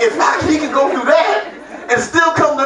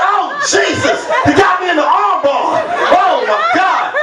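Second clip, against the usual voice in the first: mock panic; 7 semitones higher than usual. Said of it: "I panicked".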